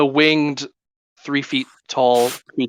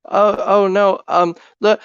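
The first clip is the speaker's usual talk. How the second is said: high, flustered fairy calling out; fluttering, panicked little fairy; 7 semitones higher, 3 dB louder than usual. Acted.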